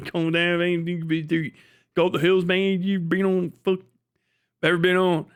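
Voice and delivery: attempted accent sliding into Kentucky; half-landed Kentucky accent. Shown as a demonstration. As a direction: put on a loose Kentucky hill accent. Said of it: "I started sounding just like".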